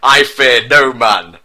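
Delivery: hammed-up slow loud shout; mock-heroic bellow. A narrator's reading. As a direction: roar it defiantly and slowly. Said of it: "shouted Prince William".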